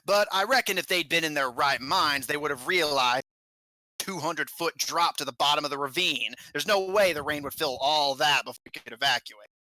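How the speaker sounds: put-on lightly accented goblin warden reasoning it out; a touch of a fed-up goblin mine boss. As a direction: goblin lightly voiced, dismissing the panic.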